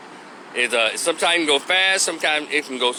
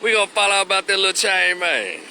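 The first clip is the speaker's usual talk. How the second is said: Memphis debtor reply; 4 semitones higher than usual. Retold or imitated. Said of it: "The guy said".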